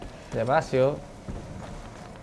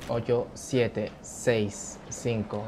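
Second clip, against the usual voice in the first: quiet countdown; 2 semitones lower, 6 dB quieter, much slower than usual. Real, not acted. Counting down before match.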